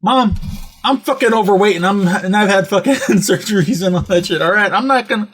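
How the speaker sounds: worked-up son's comeback; exasperated retort. Retold or imitated. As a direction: argue back, fed up with mom. Retold retort to his mother.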